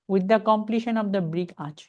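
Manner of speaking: very slow but joined right through to arch; slow, connected teaching read; read as one phrase. Shown as a demonstration. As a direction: keep the whole phrase together. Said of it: "মনে করতে হবে একসাথে".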